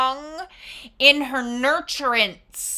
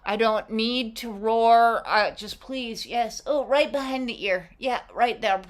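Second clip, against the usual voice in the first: contented lion; 2 semitones lower, 4 dB quieter than usual. Pretend. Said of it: "so that this lion goes".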